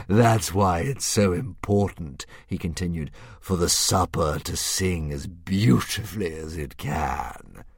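slow, a hint of a grand beast; drawn out like a pleased old dragon; lightly voiced dragon. Dragon musing over Hiccup's riddle, slow and lightly grand.

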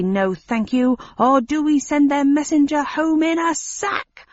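alien rabble-rouser rising to a shout; ranting alien. Acted. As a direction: whip the crowd up as the alien. Alien ringleader rants to crowd.

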